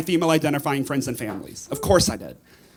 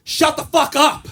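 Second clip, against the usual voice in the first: higher, louder, slow "shut the fuck up"; angry shushing; 7 semitones higher, 3 dB louder, slower than usual. Retold or imitated. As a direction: snap at the talkers behind you. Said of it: "I was just like".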